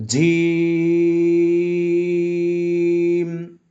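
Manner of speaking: "জিম" with a firm j and very long vowel; hard-onset "জিম", stretched right out to the m; hard Arabic jim. Shown as a demonstration. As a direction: chant "জিম" slowly on one steady note. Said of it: "উপরে তালুর সঙ্গে লাগিয়ে উচ্চারণ করতে হবে".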